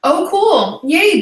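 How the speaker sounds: bright high burst of delight; thrilled by the message; excited. Real, not acted. Reacting to a donation.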